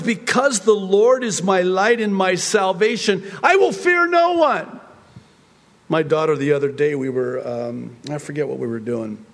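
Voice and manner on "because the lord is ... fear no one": rising to a high, loud defiant cry; triumphant psalmist daring anyone to come. Retold or imitated. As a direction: shout down every enemy. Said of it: "he's taunting in asking".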